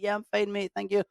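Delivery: high, breezy acted small talk; playfully acted quick street chat; mock cheery reply. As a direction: toss back a friendly high-pitched reply in passing. Acting out cheery passing exchange.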